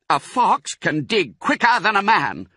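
high, urgent declaration; excited shout. A narrator's reading. Mister Fox beginning to dig, excited shout. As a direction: call it out while setting to work. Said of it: "shouted Mister Fox".

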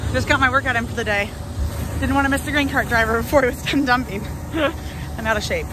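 winded after running; puffing between words; out of breath. Real, not acted. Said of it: "am out of breath now".

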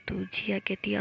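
plain reading voice

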